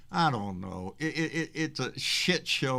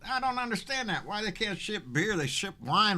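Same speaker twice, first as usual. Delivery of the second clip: baffled; 11 semitones higher than usual. Real, not acted. Puzzled complaint about shipping.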